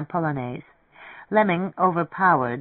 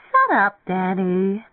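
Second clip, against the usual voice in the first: slow, higher, good-natured singsong; 4 semitones higher, 3 dB louder, slower than usual. A narrator's reading. Beth brushes off Danny at the piano, good-natured. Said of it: "Beth said good-naturedly".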